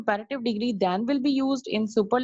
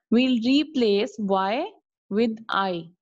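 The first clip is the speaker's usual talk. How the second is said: slow teaching emphasis; slower than usual. Shown as a demonstration. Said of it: "teacher repeats rule".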